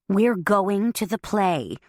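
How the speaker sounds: slow, overly patient; slow deliberate patience; exaggerated patience. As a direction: spell it out like to a child. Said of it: "with exaggerated patience".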